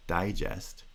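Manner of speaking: digest as DI-gest, pitch falling to the second syllable; primary stress on DI, secondary on gest; stress on first syllable. Shown as a demonstration. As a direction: say the noun digest, front-stressed. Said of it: "is higher than the pitch of the second syllable".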